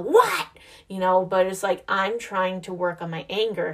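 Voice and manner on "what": high sharp mock yell of what; imitated yell. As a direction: snap it like an annoyed mom. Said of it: "just yell".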